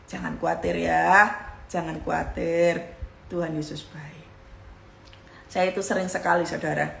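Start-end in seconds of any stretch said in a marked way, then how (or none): 0.1-4.2 low, slow reassurance sinking to near whisper; soothing self-talk. Shown as a demonstration. Preacher showing how to talk to oneself, soothing. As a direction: soothe yourself, slowly and low. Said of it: "katakan kepada dirimu begini".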